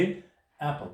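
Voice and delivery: एप्पल said with an open a sound at the start; pronouncing apple. Shown as a demonstration. Teacher modelling how एप्पल sounds at the start. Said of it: "जब एप्पल को आप pronounce करेंगे".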